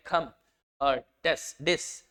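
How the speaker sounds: खम, टेस, डिस said short and unstressed; unstressed syllables. Shown as a demonstration. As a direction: keep खम, टेस and डिस light, without weight. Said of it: "ये दोनों ही unstressed". (खम, टेस, डिस बिना ज़ोर के, हल्के से)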